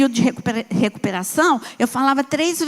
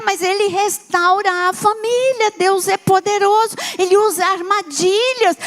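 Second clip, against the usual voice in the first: rising, higher sermon climax; preaching; 3 semitones higher than usual. Real, not acted. Pastor telling the congregation that God restores families, preaching. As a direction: build the conclusion with conviction. Preaching conclusion over music.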